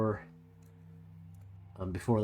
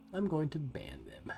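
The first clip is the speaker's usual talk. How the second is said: whispered, higher, half to himself; muttered threat; 6 semitones higher, 5 dB quieter than usual. Real, not acted. Streamer dealing with a troll, whispered. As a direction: mutter the ban under your breath. Muttering about banning a chatter.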